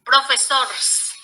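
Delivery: "Profesores" slowly, said as "profesors"; wrong plural, S only. Shown as a demonstration. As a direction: drop the e and end "Profesores" in a bare -rs. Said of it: "agregándole la S".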